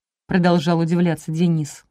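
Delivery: plain reading voice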